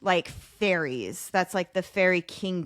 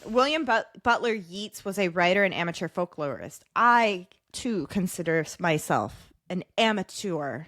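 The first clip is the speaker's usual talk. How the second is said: reading in a put-on Irish accent. Host reads Yeats lore to impressed co-host, Irish accent. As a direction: read it with an Irish lilt and rolled r. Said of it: "blowing me away with your Irish accent".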